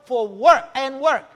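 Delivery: slow, loud charge; slow, loud exhortation; proclaiming. Retold or imitated. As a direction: lean on each word. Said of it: "declares the Lord".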